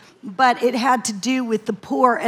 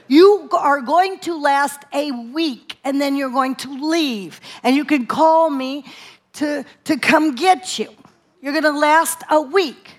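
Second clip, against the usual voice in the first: colonel-like love; 3 semitones higher than usual. Retold or imitated. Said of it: "He said very lovingly".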